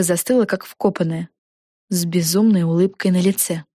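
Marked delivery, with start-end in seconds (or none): none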